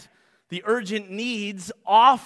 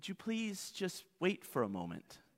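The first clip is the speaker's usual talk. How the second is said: put-on soft, mock-gentle voice, much quieter; 3 semitones lower, 17 dB quieter than usual. Acting out a hypothetical polite request during an urgent need, retelling in a soft, gentle voice. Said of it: "softly and gently said".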